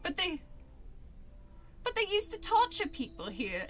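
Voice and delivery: badly faked London accent; British character voice. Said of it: "do the voices at, in British".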